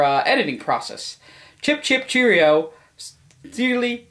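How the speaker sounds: lightly put-on English accent reading; hint of a jolly English accent; mild English accent. Reading the letter aloud in a light mock English accent. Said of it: "Steven Spielberg writes with an English accent".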